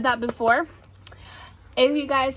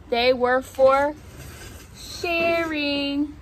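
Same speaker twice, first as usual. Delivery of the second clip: measured storybook narration; reading to children; slower than usual. A narrator's reading. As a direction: read it to little ones, pausing between phrases. Reads picture book aloud.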